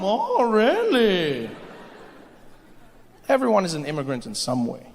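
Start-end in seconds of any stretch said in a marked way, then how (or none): 0.0-1.5 very slow, drawn-out Oh, really; laughing sarcasm; sarcastic disbelief. Retold or imitated. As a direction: stretch it out in mock wonder. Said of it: "And they're like".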